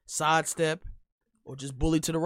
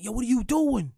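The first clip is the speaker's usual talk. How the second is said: higher and louder scolding call; mock coach shout; 8 semitones higher, 8 dB louder than usual. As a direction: yell it like a fed-up coach on the sideline. Coach yelling at young player.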